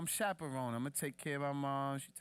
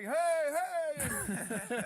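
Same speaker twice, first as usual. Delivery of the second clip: much higher, louder hollering mom; mom cheering; 6 dB louder than usual. Retold or imitated. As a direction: mom yelling at the fight. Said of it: "And she's like".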